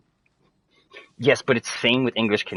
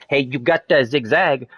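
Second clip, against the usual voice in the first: put-on clumsy French-accented English, drawn out and higher; 5 semitones higher, 3 dB louder, slower than usual. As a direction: put on a mock French accent, slow and raised. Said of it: "that's how the French sound to us".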